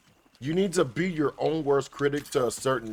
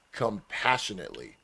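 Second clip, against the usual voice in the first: weight on "compassionately" as the key word; stress on compassionately; 3 semitones lower than usual. Shown as a demonstration. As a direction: stress every syllable of "compassionately" gently. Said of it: "Emphasis on compassionately".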